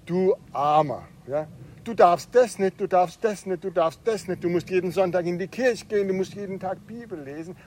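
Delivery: mock pity, lecturing list of rules; lightly voiced scoffer listing what Christians can't do; pitying critics. Preacher voices outsiders mocking Christians with pity. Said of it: "Die gucken auf die Christen und sagen".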